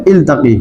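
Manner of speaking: iltaki said slowly and clearly; modelled pronunciation. Shown as a demonstration. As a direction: pronounce ইলতাকি carefully as a model. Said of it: "কি হবে?".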